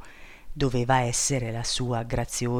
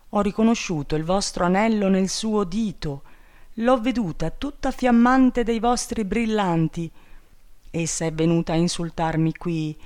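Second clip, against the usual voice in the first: rising, faster, wounded indignation; indignant princess; 4 semitones higher than usual. Acted. Betrayed princess reproaches king over Trotona, indignantly. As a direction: accuse him, building in hurt anger.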